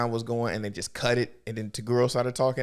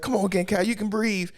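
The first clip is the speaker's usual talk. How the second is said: higher sing-song taunt; mocking encouragement; mock taunting villain; 9 semitones higher than usual. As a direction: tease her like a smug villain.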